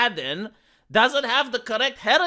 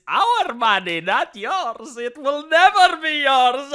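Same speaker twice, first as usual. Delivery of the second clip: mock shout; 4 semitones higher, 4 dB louder than usual. Mock villain gloating at studio.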